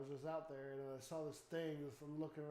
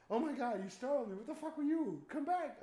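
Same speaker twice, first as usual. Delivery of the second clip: loud, higher rattled calling out; startled shouting; 8 semitones higher, 8 dB louder than usual. Retold or imitated. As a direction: demand it come back, shaken. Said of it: "I mean, I'm".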